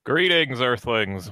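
hammy sci-fi alien; grand alien arrival; alien greeting. Pretend. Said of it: "There it is".

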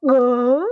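loud imitated gag of disgust; a short comic "gah" of revulsion; mock recoil noise. Mimicking everyone turning away from the explosion, mock recoil. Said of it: "And they're like".

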